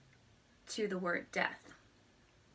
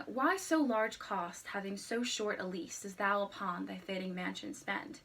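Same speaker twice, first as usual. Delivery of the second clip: reciting a sonnet. Shown as a demonstration.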